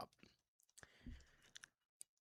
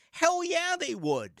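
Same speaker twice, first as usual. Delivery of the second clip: emphatic yes; 13 semitones higher than usual. Real, not acted. Emphatic answer to own question.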